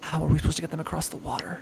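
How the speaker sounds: very quiet, low mutter under the breath. As Miriam, motioning to Arena and Elysia: muttering. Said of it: "kind of mutters".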